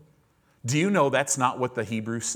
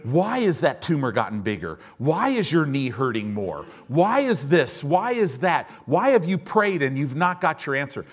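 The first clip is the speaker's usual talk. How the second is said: Satan's taunting; 3 semitones higher, 4 dB louder than usual. Retold or imitated. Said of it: "Who always talks to you about the why? Satan".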